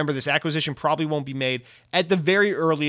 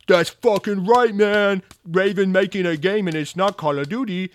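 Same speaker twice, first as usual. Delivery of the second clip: loud, high hype shout; cheering fans; 6 semitones higher, 5 dB louder than usual. Retold or imitated. Xbox fans celebrating on Twitter: loud, high cheering yell. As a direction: yell it like a jubilant fanboy. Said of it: "Xbox fans will go on Twitter and be like".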